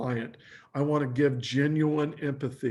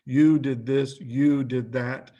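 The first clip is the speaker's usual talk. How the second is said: accusing you statements; 5 dB louder, slower than usual. Retold or imitated. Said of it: "the word you".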